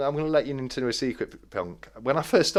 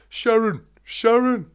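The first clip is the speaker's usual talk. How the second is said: A rock singer calling Sharon; 11 semitones higher, 4 dB louder than usual. Retold or imitated.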